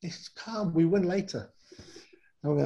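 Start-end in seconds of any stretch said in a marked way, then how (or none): 0.0-1.5 lightly voiced French coach, higher and unbothered; French coach reassuring. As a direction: brush off the panic in broken English. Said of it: "his favourite thing was".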